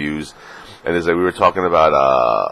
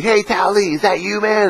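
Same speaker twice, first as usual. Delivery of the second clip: very high, put-on fan greeting; imitated fan. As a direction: call out in a high mock fan voice. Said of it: "people, like, know who I am".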